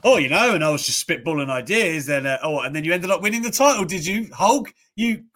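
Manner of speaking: high, teasing mock questioning; imitating the interviewer. Retelling the Yokozuna interview, a high teasing mock interviewer. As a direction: needle him like a sly interviewer. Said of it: "this is the way he says it".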